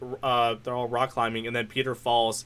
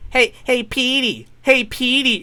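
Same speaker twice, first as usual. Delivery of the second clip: high, louder teasing nickname call; mocking call; 9 semitones higher, 4 dB louder, slower than usual. Superhero demonstrating an annoying nickname, high mocking call. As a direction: pitch it up and sing out the name. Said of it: "how would it feel if I go".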